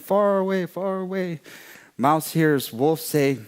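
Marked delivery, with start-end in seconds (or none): 0.0-1.4 high, lilting, fading into the distance; storyteller's high far-off call; distant, far-away narration. A narrator's reading.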